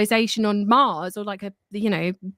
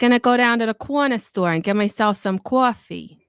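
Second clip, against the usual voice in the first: East Coast accent; 3 dB louder than usual. Shown as a demonstration. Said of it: "East Coast accent".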